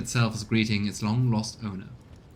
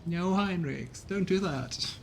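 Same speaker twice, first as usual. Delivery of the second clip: higher, slow, pleading plea; 8 semitones higher, 4 dB quieter, slower than usual. Acted. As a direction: beg him not to go, softly dismayed. Player pleads with romance partner.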